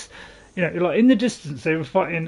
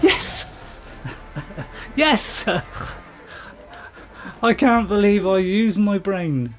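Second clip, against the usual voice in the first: laughing; 3 semitones higher, slower than usual. Real, not acted. Thrilled his plan worked.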